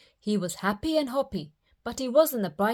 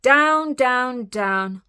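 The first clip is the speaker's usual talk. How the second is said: descending steps; 4 semitones higher, 6 dB louder, much slower than usual. A narrator's reading. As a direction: step the voice down from high and loud. Describing the descent in voice.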